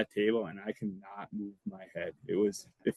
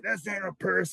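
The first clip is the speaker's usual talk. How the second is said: retold indignant retort; 9 semitones higher than usual. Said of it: "Kling gets all pissed off".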